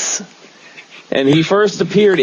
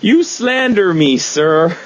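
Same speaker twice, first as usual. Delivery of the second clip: slow mock British indignation, pitched up; Rocky Raccoon; 3 semitones higher, slower than usual. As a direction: play an affronted Brit, lightly hammed. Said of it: "he had a British accent".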